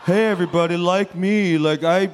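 loud mocking robot voice; robot voice, mocking Luke. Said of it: "a computer program that makes me talk like this, like a robot".

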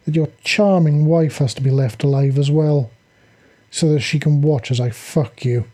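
purring, seductive villainess taunt; sultry and seductive. Acted. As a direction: coo each threat like a seduction. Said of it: "her voice going sultry and seductive".

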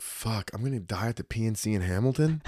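quiet, understated dread; resigned realization. Retold or imitated. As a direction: let it sink in softly, unafraid. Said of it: "I didn't get scared".

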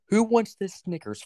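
high, drawn-out offer to the class; teacher calling out. Retold or imitated. Teacher offering free candy to the class, calling out slowly. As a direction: imitate a teacher dangling a prize.

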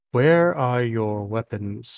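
slow, measured voice in the head; telepathic Illithid. Acted. Illithid questions the captive mind to mind, slow telepathic voice. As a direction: ask it slowly, each word evenly spaced. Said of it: "in your head you hear him".

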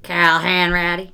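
slow, drawn-out Boston accent imitating Tom Hanks; mock Boston accent. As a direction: say the name like a bad Boston impression. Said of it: "That's, uh, his Boston accent right there".

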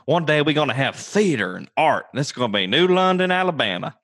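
hammed-up founder with mighty aspirations; hopeful town founder. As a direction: proclaim a grand dream for the town. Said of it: "They thought".

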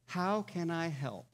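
slow, heartfelt offer of help; sincere offer. Acted. Hiker to a struggling companion on the trip, sincere. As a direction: say it slowly and sincerely. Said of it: "sincerely say to somebody else".

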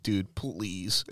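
a hushed retold plea from a friend; soft whispered plea. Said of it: "he whispered".

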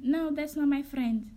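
slow, drawn-out retold denial; a hint of a dazed girl; lightly voiced tipsy girl. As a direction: lightly imitate her dragging out the words.

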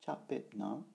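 "Cha Pe Na" with no R in "Cha"; without the R. Shown as a demonstration. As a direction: leave any R out of "Cha Pe Na". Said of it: "ce n'est pas".

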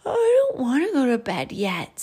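put-on high, loud little-kid whine; whining child. Albie refusing to go to bed, high loud whine. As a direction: protest bedtime like a whiny child.

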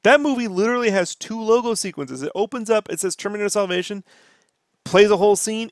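ordinary talk, nothing marked

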